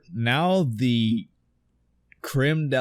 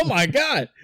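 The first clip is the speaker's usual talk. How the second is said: much higher, louder, laughing at himself; 12 semitones higher, 4 dB louder than usual. Real, not acted. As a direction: crack up at your own slip. Laughs at own Hank Hill slip.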